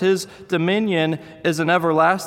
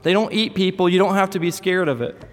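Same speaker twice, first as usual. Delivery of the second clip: put-on little boy; 4 semitones higher than usual. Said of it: "I just told him that in the store".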